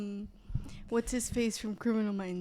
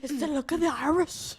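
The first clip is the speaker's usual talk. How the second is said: put-on Irish accent; 2 semitones higher, 4 dB louder than usual. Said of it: "in an Irish accent".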